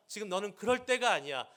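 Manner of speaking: stern rebuke, stress on 때가; God scolding Jeremiah, firm. Pretend. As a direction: press the point with 때가 weighted. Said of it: "다그치세요".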